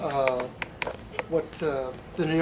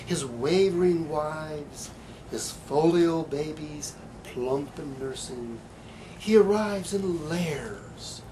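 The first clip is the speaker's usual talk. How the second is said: slow, deliberate recital of another poet's poem; poetry reading; slower than usual. Acted. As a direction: let the images unfold slowly. Reads Frank Polite's poem.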